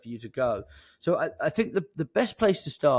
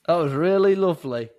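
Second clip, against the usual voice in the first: put-on higher, louder northern English accent; 5 semitones higher, 6 dB louder than usual. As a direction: gush in a broad northern accent. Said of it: "I don't know why I've gone northern today".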